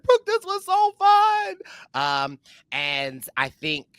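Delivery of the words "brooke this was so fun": high, slow tearful wail; mock sob it out, very high; high-pitched tearful gush; crying. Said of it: "I may or may not been crying".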